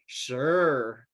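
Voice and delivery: drawn-out, proud agreement. Retold or imitated. Coworker agreeing to show his photo, proud. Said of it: "he was so proud of that picture".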